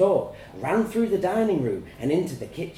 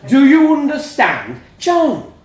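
tag; 12 semitones higher, 12 dB louder, slower than usual. A narrator's reading. Dad demands, mum cries out.

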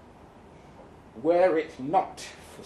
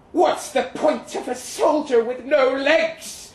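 lightly voiced blunt mother, higher; a hint of a mother's blunt jab; imagined mother's blunt question, lightly voiced; 6 semitones higher, 3 dB louder than usual. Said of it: "she'd say".

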